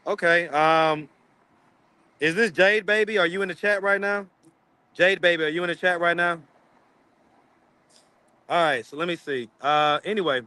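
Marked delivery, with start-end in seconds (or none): 2.2-6.4 slight lisp on s sounds. Real, not acted. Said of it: "You are lisping today for real?".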